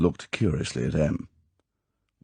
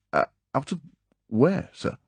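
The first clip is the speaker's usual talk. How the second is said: strangled voice; 10 semitones higher than usual. A narrator's reading. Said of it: "He said in a strangled voice".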